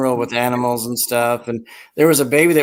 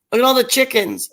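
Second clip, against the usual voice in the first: high-pitched mimicry of the clip; sing-song high marvelling call; excited clip imitation; 10 semitones higher, faster than usual. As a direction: repeat the catchphrase way up high. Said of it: "and it's like".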